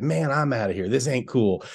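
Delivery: laid-back dude voice; cool dog voice. Retold or imitated. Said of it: "I think he would talk like that".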